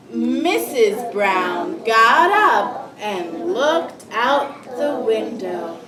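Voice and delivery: slow, deliberate storybook reading; read-aloud to children. Acted. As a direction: read slowly to a class of young children. Teacher reads picture book aloud.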